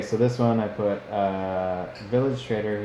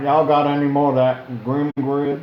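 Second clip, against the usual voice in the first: mock junkie ask; 6 semitones higher, 9 dB louder than usual. Joking parody of a famous line.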